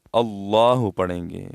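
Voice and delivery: اللہ said with a clean final h, no added u; اللہ ending crisply on the h; correct Allah. Shown as a demonstration. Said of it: "اللہ نہیں پڑھیں گے". (اللہ کو آخر میں ہا پر صاف ختم کریں)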